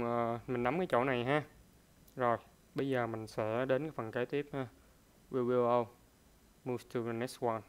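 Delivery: ordinary delivery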